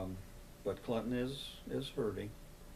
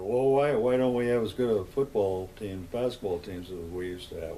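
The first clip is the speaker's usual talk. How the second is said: puzzled complaining question; 7 dB louder than usual. Retold or imitated. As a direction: voice the puzzled townsfolk. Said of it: "people wonder".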